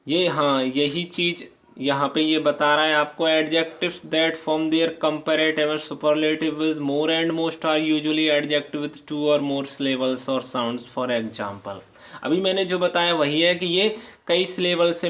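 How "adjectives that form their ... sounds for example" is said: reading the rule aloud, word by word; slow, careful dictation pace; slow textbook reading. Acted. Teacher reading the rule to students, slow and deliberate.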